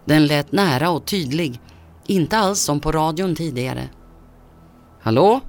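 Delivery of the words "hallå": repeated hello, louder with a rising question; a bit louder. Acted. Father repeating hello to his silent son, louder. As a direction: call into the phone a little louder, as if unsure anyone is there. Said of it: "nu med lite högre röst".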